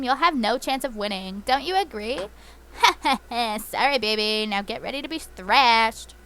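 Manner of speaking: smug Team Rocket boss; taunting, theatrical villain read. Acted. Voicing Ariana's battle dialogue.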